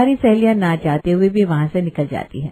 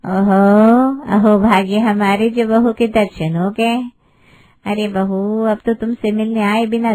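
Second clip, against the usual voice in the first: gushing aunty. Acted. Neighbourhood aunty greeting the bride at the door, fake gushing. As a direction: lay the fake delight on thick.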